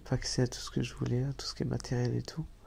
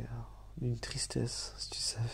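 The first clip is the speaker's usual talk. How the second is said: soft sad whisper; 6 dB quieter than usual. Real, not acted. Avoue sa tristesse.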